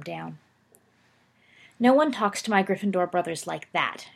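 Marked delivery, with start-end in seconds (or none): 1.8-4.1 shouted. Acted. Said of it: "shouted James Potter".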